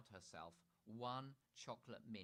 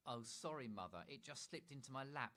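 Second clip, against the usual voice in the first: put-on a touch of guilty higher child; sheepish little excuse, slightly higher; guilty Chloe; 4 semitones higher, 4 dB louder than usual. Chloe caught hiding sausage, lightly guilty excuse. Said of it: "said Chloe guiltily".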